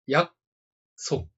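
約 束 said slowly, one syllable at a time. Shown as a demonstration. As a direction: split 約束 into two slow syllables. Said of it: "約 束".

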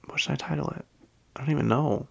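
whispered to herself, breathy and hushed. Shown as a demonstration. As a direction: ask it in a whisper, like a secret. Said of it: "What should it, what should I title it?".

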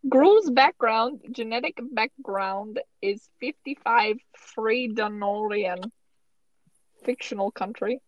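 slipping cartoon-villain accent; half-hearted imitation of a character's accent; Gru. Host reads out Gru's background in a slipping Gru accent. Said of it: "my Gru accent is getting much worse".

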